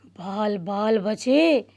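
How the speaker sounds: put-on boy relieved once his friend has gone; relieved sigh. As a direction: let the tension out slowly. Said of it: "गहरी सांस लेते हुए".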